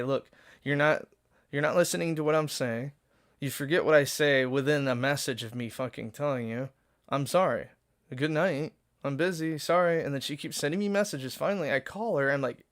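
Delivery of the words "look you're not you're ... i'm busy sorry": fed up, pushing the words out loud; raising his voice in exasperated retelling; exasperated, louder. Retold or imitated. Retelling how he told her off, loud and fed up.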